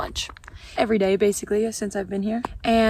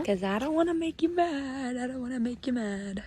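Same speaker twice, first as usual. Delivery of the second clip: gentle to sheep; 2 semitones higher, 4 dB quieter than usual. Real, not acted. Talking to the sheep.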